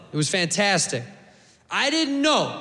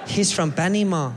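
put-on Costa Rican accent; 2 semitones lower than usual. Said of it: "And the local guy".

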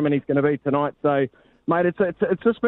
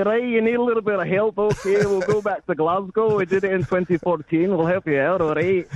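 put-on Scottish accent; 4 semitones higher than usual. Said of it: "your Scottish one".

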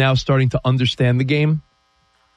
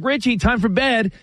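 mom calling bedtime; 8 semitones higher than usual. Retold or imitated. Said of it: "my mom would be like".

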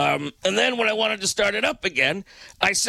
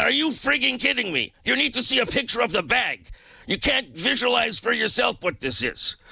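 high, exasperated disbelief; retold angry phone reply; incredulous outburst; 5 semitones higher than usual. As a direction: let your disbelief boil over. Retold outburst at support agent.

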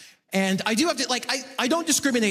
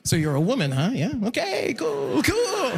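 playing it cool; 2 semitones higher than usual. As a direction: try hard to sound cool and fail. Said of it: "obviously I play it cool".

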